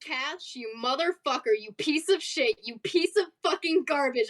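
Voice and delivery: indignant cursing, building in pitch; mock outrage. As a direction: berate a friend who betrayed you. In-character cursing out of Cash.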